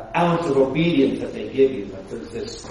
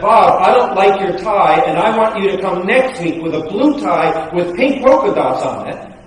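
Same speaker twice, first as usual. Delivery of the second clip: mock bossy pastor; 2 semitones higher, 3 dB louder than usual. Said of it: "So if I said that".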